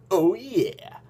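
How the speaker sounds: breathy aside whisper. Real, not acted. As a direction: breathe it to yourself.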